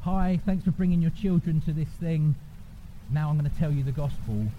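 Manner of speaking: lightly voiced event host; a hint of a presenter greeting parents; God-slot presenter. Greeting parents before a God slot, as a lightly acted presenter. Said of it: "we stand up and go".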